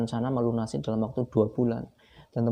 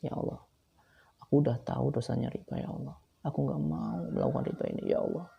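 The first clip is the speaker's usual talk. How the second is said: tearful quiet prayer; 5 dB quieter than usual. Retold or imitated. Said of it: "saya menangis guys".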